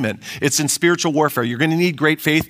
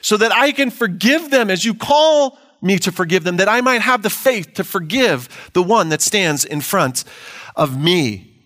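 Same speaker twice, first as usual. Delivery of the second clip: a believer crying out to forgive, slow and raised; crying out in prayer; 2 semitones higher than usual. Acted. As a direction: draw out the plea to God. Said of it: "I need to cry out".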